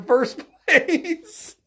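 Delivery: breaking into laughter on the final words; losing it at the end of the sentence; laughing. Real, not acted. Commentator in disbelief at the candidate, laughing. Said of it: "I'm really laughing because it's".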